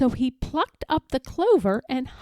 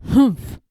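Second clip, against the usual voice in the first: little humph; 5 dB louder than usual. A narrator's reading. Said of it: "the young kangaroo in her pouch said".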